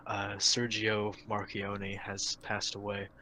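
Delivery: soft, mock-solemn death announcement; choked up. Podcast host announcing a CEO's death, mock choked up. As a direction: feign grief, keeping it hushed. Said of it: "I'm getting a little choked up".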